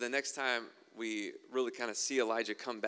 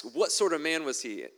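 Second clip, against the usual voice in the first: commanding king; 5 semitones higher, 5 dB louder than usual. Acted. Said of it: "The king commanded".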